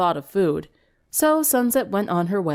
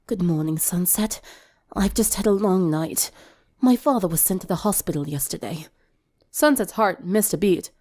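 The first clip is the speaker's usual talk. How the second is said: weary Octavia. Acted. Octavia voiced, upset after long night.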